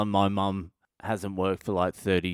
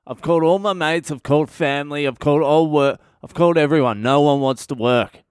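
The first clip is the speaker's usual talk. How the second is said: building rant; 3 semitones higher, 6 dB louder than usual. Retold or imitated.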